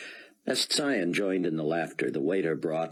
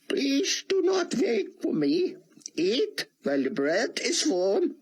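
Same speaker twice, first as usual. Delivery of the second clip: put-on higher, heavy Hebrew-accented rabbi; thick Hebrew accent. A narrator's reading. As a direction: speak English through a thick Hebrew accent. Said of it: "in his thick Hebrew accent".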